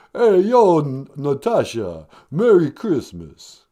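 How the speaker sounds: mumbled lightly voiced Stallone; a hint of Stallone mumbling; Stallone impression. Caller Stallone greeting the show host, mildly mumbled. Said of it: "Hey, Sylvester Stallone".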